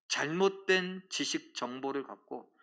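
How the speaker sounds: ordinary delivery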